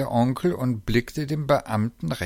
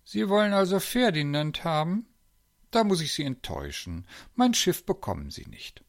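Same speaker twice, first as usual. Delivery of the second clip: unruffled, higher-pitched refusal; quite calm; 7 semitones higher than usual. A narrator's reading. Uncle refuses the zoo director, quite calm. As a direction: turn him down without heat. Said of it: "war ganz ruhig und sagte".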